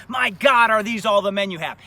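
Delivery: a commander blurting out his dismay; shocked exclamation. Retold or imitated. General shocked at small regiment.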